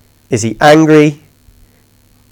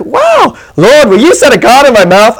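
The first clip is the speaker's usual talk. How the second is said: mock eager prayer; 6 semitones higher than usual. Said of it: "And I was like".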